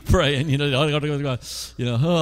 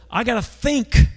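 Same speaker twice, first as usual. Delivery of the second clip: anxious inner voice; 5 semitones higher than usual. Retold or imitated. Panicked inner voice before meeting.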